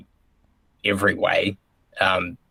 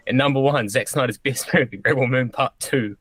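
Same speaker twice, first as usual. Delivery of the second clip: hyped countdown reveal; 5 semitones higher than usual. Pretend. Mock ranking countdown.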